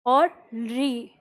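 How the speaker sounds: री stretched very long and slow. Shown as a demonstration. Teacher naming the extra Sanskrit vowel, drawn out. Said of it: "एक और वर्ण होता है लृ".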